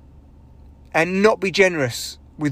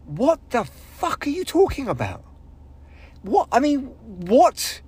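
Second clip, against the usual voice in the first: higher, incredulous put-on crowd voice; mock audience confusion; 7 semitones higher than usual. Crowd staring at the comedian, mock baffled. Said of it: "everyone looked at me like".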